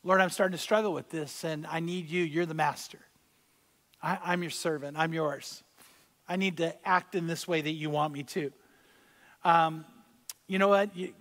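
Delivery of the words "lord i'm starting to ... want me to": softer, humble prayer to God; sample prayer. Shown as a demonstration. Preacher modelling a prayer to the Lord, soft and sincere. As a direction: pray it quietly and sincerely.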